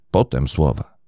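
plain reading voice

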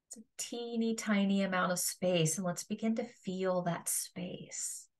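calm meditation guide with long pauses; guided meditation. Acted. Yoga teacher guiding listeners to feel their resting body, guided meditation. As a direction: guide them through a body scan, leaving space between phrases.

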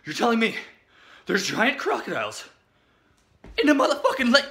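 retold disbelief.

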